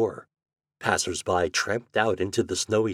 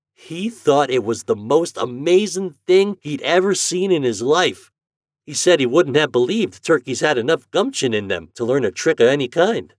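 put-on higher, louder country boy telling a story; lively farm boy; 7 semitones higher, 6 dB louder than usual. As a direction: tell it with gusto. Homer continues.

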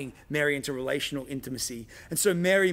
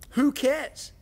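mock dismissive; 10 semitones higher, 5 dB louder than usual.

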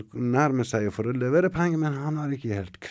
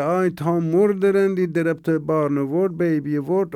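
husband screaming; 3 semitones higher, 5 dB louder than usual. Acted. Husband screams after baby dies.

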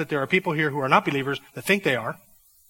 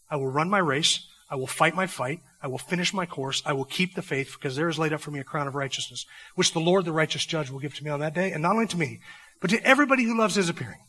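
softer, sincere vow of a believer; quiet resolve; 4 dB quieter than usual. Retold or imitated. Preacher voicing the true believer's vow to finish the race, softer and sincere. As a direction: speak it as a settled, earnest promise.

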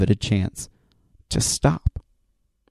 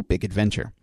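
whispered; 5 dB quieter than usual. Retold or imitated. Rose's line, retold.

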